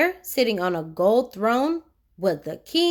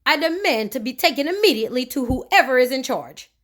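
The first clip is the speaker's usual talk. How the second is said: angrily; 3 semitones higher than usual. Acted. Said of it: "said Mister Uppity angrily".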